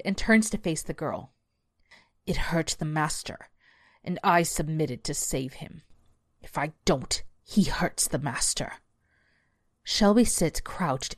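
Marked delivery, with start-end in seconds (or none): 2.3-8.8 beast voice. Acted. Beast explains.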